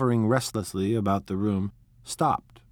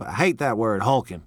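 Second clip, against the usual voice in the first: cross objection; 4 dB louder than usual. Acted. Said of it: "objected Tom crossly".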